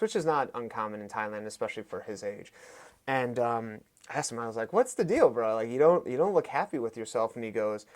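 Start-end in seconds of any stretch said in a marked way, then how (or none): 4.7-7.3 puzzled friendly prodding. Retold or imitated. Fighter asking his unhappy winning friend what's wrong, puzzled prodding. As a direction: jump up in pitch, probing a friend.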